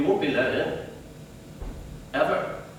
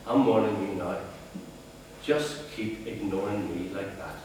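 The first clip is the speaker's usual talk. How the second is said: shaking rage; 5 semitones lower, 9 dB quieter than usual. Retold or imitated. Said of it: "the rage making your voice shake".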